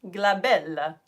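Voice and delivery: playful mock-Italian "glabella"; Italian accent. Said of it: "say it in Italian accent".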